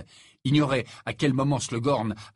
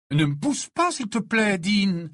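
raised, irritated scolding; annoyed; 8 semitones higher, 5 dB louder than usual. A narrator's reading. Ginny snaps at Dean on passing, annoyed. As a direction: tell him off with exasperation. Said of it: "lança-t-elle agacée".

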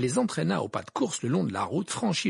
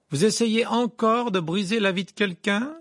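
loud, higher accusation; raised voice; 9 semitones higher, 6 dB louder than usual. A narrator's reading. Harry challenges Rita in the pub, in a loud voice. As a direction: call it out loudly across the room. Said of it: "d'une voix forte".

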